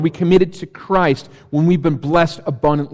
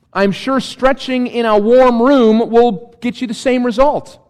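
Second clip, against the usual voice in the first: mock sincere, pitched higher, dripping irony; sarcastic; 5 semitones higher than usual. Shown as a demonstration. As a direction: sell it straight, then twist the knife. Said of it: "It's sarcasm".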